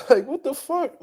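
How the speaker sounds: high laughing what; laughing disbelief. Real, not acted. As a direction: laugh out the question.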